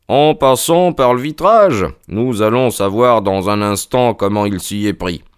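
lightly voiced detective, emphatic opening; Holmes. (Holmes, assuré et emphatique)

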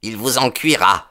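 high-pitched threat; young man's high, angry outburst; enraged exclamation. A narrator's reading. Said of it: "blême de rage".

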